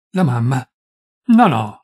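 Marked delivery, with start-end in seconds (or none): 1.3-1.8 a quick, loud no; the doctor denying it loudly; firm loud denial. Acted. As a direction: cut her off firmly. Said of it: "negò subito forte il dottore".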